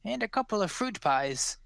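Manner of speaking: put-on high, quick old woman's voice, all grandmotherly charm; sweet old pie seller. Old woman offers pies to a traveller on the road, high sweet voice.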